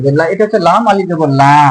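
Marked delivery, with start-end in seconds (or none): 0.2-0.2 লা with a held long vowel; long laa. Shown as a demonstration. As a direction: stretch the vowel of লা. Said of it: "টান দিতে হবে".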